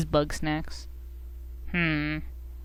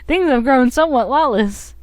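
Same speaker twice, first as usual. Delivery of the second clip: higher, lightly acted game voice; game character explaining; 7 semitones higher, 5 dB louder than usual. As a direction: voice the character's grave news. Voicing game character's exposition.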